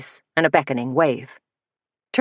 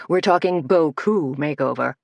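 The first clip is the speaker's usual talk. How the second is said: giddy. Acted. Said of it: "in a giddy tone".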